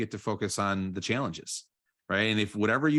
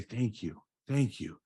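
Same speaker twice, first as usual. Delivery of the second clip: soft gratitude; slower than usual. Shown as a demonstration. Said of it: "And then I'm just gonna say".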